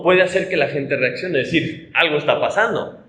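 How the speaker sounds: ordinary talk, nothing marked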